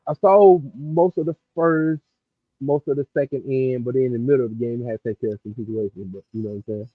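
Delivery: sounding muffled, like through a wall; muffled, far-off mic sound; muffled audio. Real, not acted. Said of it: "your audio sound muffled to me".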